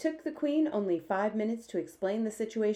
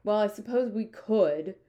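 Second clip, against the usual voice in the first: slow, louder, reluctant concession; grudging admission; 3 semitones higher, 5 dB louder than usual. A narrator's reading. Air Force head answers the Queen, grudgingly. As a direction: drag out a grudging yes. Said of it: "admitted grudgingly".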